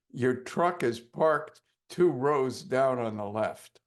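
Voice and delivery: slow, drowsy words from half asleep; drowsy sleep-talk. Retold or imitated. Hypnotist talking in his sleep to his client, slow and drowsy. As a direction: mumble it as if still asleep. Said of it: "I say to him from being asleep".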